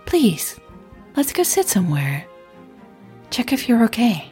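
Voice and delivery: warm and caring. Acted. Blonde woman checking on shaken Emily, warm and caring. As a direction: offer help with gentle care. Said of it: "voice was warm and caring".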